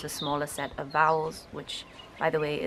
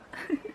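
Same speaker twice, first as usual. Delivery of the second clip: laugh; 13 semitones higher than usual. Real, not acted. Laughs at own imitation.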